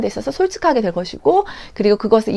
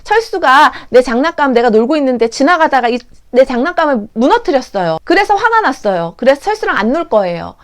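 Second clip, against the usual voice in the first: put-on child explaining feelings; 2 semitones higher, 4 dB louder than usual. Child telling teacher a friend broke a toy, aggrieved. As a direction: lay out the grievance step by step, childlike. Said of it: "이렇게 좀 구체적으로 나올 수 있도록".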